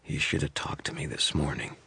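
soft, pained and breathless; gasping out the words, barely voiced; weak, panting. A narrator's reading. Poisoned cop gasping at the wizard, weak and breathless. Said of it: "She broke off in a panting gasp".

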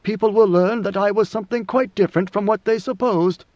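lightly voiced ruler laying out his design; a hint of a commanding emperor; God Emperor, measured. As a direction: pronounce it like a ruler decreeing.

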